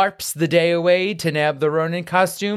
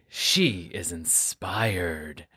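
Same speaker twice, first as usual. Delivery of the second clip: whisper; 8 semitones lower, 8 dB quieter, much slower than usual. Acted. Whispered dramatic aside.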